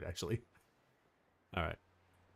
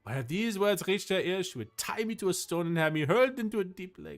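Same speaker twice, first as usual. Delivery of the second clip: put-on higher-pitched French-accented storytelling; animated French accent, raised pitch; 5 semitones higher than usual. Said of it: "Why am I doing a French accent?".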